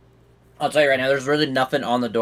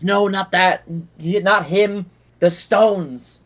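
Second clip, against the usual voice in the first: fearful; 6 semitones higher, 4 dB louder, much slower than usual. Acted. Frightened man corrects the player.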